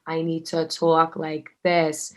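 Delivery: slow, careful words, lightly mocking herself; imitating overcareful line delivery; self-conscious, deliberate delivery. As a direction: talk as if minding every sound. Mimics herself concentrating on accent.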